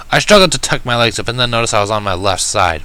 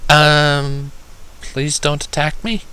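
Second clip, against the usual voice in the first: timid plea; 4 semitones higher, much slower than usual. Acted. Injured pony timidly begging the large bird not to attack. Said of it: "I requested timidly".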